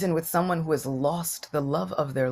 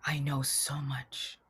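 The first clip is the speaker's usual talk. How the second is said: slow, unvoiced whisper of defeat; soft broken whisper; 3 semitones lower, 9 dB quieter, slower than usual. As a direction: breathe it out slowly, almost ashamed. Uddhava's sad admission.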